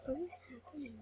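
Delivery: whispered confusion; real whispered bewilderment. Real, not acted. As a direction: breathe the question, baffled. Confused by game event.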